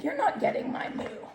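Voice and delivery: mock whispered refusal; whispered cow. Reader voicing Kathy the cow to the kids, whispered. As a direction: hiss it playfully.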